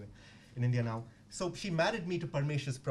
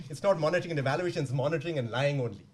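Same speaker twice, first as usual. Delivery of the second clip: put-on louder South Indian accent, stressing not; 6 dB louder than usual. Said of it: "very strong South Indian accent".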